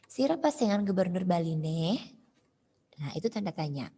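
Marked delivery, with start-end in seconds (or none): 0.1-2.0 "Sira pesengan Gubernur Bali ne?" easing down through the phrase before the question tail; question tune, slightly falling. Shown as a demonstration. Teacher demonstrating question intonation, slightly falling tune. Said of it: "Menurun dia intonasinya".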